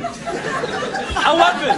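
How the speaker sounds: "Eleven" dragged out very slowly; very slow drawn-out. Shown as a demonstration. Man to the lift, dragging out the word slowly. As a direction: stretch each syllable out. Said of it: "saying it the same way".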